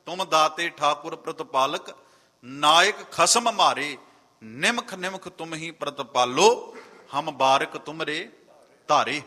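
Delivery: slow, measured verse recitation; scripture recitation. Real, not acted. Preacher reciting Gurbani to the congregation, slow scripture recitation. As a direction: recite the verse with drawn-out words.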